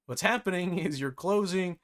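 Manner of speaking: chuckling through the words; laughing. Real, not acted. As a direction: laugh as you explain. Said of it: "that's why I'm laughing about it".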